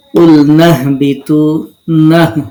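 নাহ said with a firm, pushed h; slow, loud Quranic recitation of নাহবিতু; stressed Quranic reading. Shown as a demonstration. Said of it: "নুনটা হাকে ধরবে". (হাকে ধরে জোর দিয়ে উচ্চারণ)

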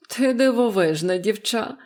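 a touch of astonishment; exclaiming. A narrator's reading. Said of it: "вигукнула вона". (здивований вигук)

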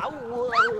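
sudden high startled cry; startled yelp. Real, not acted. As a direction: jump at the fright. Startled in dark game.

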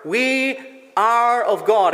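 we ARE of God, ARE stretched slow and loud; emphasis on ARE. Shown as a demonstration. Pastor stressing John's words to the church, ARE emphasised. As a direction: lean hard on ARE in we are of God. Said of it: "there's that emphasis that John gives".

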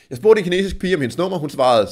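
normal talking voice

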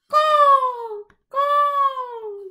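loud, high harsh caw; crow caw. Acted. Narrator cawing like a crow warning of danger, loud and high. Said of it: "here is the crow saying".

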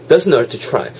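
"hurt to try" run together on one T; linked sounds. Shown as a demonstration. Teacher modelling for learners' turn, linked sounds. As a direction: link "hurt" straight into "to try". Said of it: "이렇게 연도하는 거 잘 잡아가시면서".

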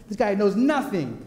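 laughing through a smug boast; gloating little brother laughing at his older brother. Retold or imitated. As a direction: chuckle it as the cocky kid.

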